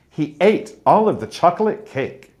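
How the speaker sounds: "He ate all of the chocolate cake" with strong and weak beats alternating; alternating sentence stress. Shown as a demonstration. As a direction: punch the content words, lighten the little ones. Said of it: "the stresses change throughout the sentence".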